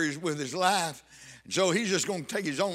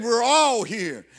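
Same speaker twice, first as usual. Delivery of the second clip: all stretched out and hit hard; stress on all; 2 semitones higher, 5 dB louder, slower than usual. Acted. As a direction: lean long and loud on all. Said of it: "underline that word all".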